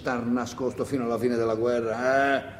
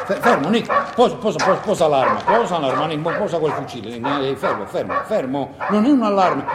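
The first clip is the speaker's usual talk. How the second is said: raised, urgent voice telling him to drop it; urgent calling out; 3 dB louder than usual. Acted. Man urging Nick to put down the rifle, urgent and raised. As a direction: stop him before he fires, loudly. Stopping Nick grabbing the gun.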